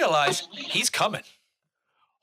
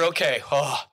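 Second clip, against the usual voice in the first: relieved inner thought; 4 semitones lower than usual. Retold or imitated. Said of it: "you figure".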